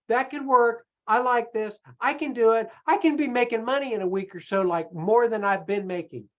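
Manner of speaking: a viewer warming to the plan, mildly excited; convinced enthusiasm. Retold or imitated. Viewer picturing a week of profits, lightly eager.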